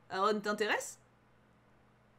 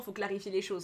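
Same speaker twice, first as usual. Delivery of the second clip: usual speaking voice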